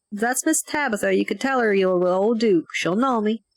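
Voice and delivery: put-on folksy old-timer chiming in; lightly voiced rural mountain man; old country farmer.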